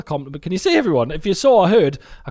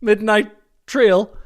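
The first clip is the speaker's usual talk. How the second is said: train announcer; 3 semitones higher, 4 dB louder, slower than usual. Pretend. Calls out a mock train departure.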